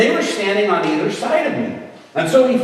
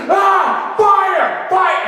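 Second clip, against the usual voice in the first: high-pitched mock screaming; frenzied cries; 13 semitones higher, 4 dB louder, much slower than usual. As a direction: cry out as if overcome, hammed up. Acts out girl screaming on floor.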